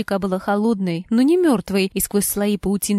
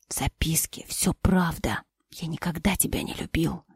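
cold whisper; 5 semitones lower, 7 dB quieter than usual. Acted. Husband confessing he never loved her, cold whisper. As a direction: drop it in a whisper.

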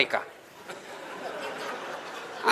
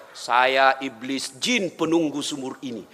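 jinn voice; 9 semitones lower than usual. Retold or imitated. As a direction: speak as an old spirit rising from the well. Voicing the jinn in well.

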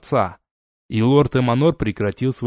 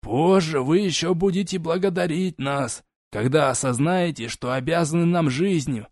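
condescending; 5 semitones higher than usual. Acted. Envoy continues patronizing.

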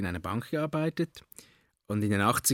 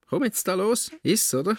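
much higher, louder coaxing; pushy urging; 11 semitones higher, 5 dB louder than usual. Retold or imitated. Godfather urges the boy to eat gold leaf, loud coaxing. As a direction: egg the child on to eat up. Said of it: "und er so".

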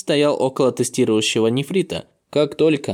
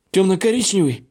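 higher-pitched narrated exclamation of shock; astonished cry; 7 semitones higher than usual. A narrator's reading. Two elders seeing the boy's stone arm, astonished cry. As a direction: cry it out in disbelief, pitch jumping up. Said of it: "одновременно крикнули".

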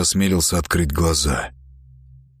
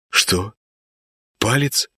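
puzzled question; 3 semitones higher, slower than usual. Acted. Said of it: "the boy asks back, puzzled".

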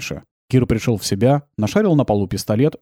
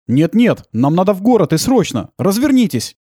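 urgent demand; 7 semitones higher, 4 dB louder than usual. Acted. Kir demands turn back.

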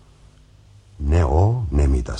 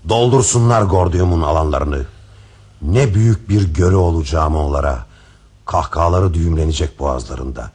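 defiant; 2 semitones higher, 5 dB louder than usual. Acted. King defiant monologue.

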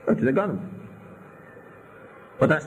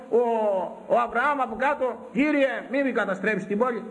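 voiced plea in a raised register; retold cry of pleading; 9 semitones higher than usual. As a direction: imitate calling up in supplication. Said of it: "φωνάζει ο".

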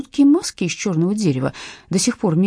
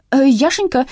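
loud call of Яшенька; calling the missing dog loudly; 7 semitones higher, 6 dB louder than usual. A narrator's reading. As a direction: shout the dog's name down the hall. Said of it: "крикнула она".

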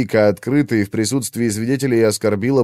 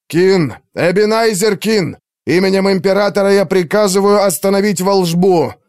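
much higher, louder shout at full strength; straining shout; 9 semitones higher, 4 dB louder than usual. A narrator's reading. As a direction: yell the emperor's order with all you have. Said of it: "надрывался Артур изо всех сил". (Артур надрывается изо всех сил)

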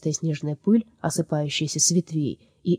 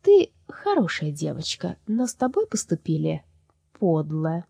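heavy sigh; slower than usual. Acted. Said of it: "тяжело вздохнула".

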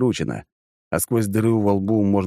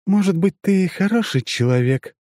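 strange alien voice; 12 semitones higher than usual. Acted. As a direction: speak as if someone else inside her. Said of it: "будто бы чужим голосом".

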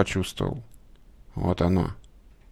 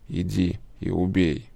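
медленный глухой голос дьявола, тише; дьявол неспешно приказывает убить; 2 semitones lower, 5 dB quieter, slower than usual. A narrator's reading. (дьявол приказывает Славе, медленно и глухо)

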